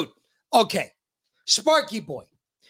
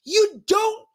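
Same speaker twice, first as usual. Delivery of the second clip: high, drawn-out exasperation; exasperated protest; 8 semitones higher, slower than usual. Real, not acted. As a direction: push the pitch up in disbelief. Host protests at politician's soft voice.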